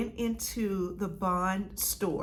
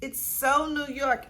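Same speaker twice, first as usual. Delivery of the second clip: building delight; 4 semitones higher than usual. Real, not acted. Second, rising repeat.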